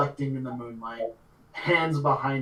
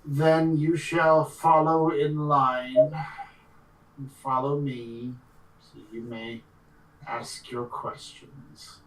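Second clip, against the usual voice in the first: formal Eladrin guide; slower than usual. Acted. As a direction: lead them on with slow, formal authority.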